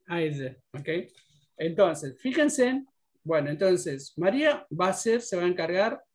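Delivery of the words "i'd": I'd softly closed on a light D; subtle final D. Shown as a demonstration. Teacher repeating the model for students, subtle D on I'd. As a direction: end I'd on a small audible D. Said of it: "se tiene que escuchar la D esa".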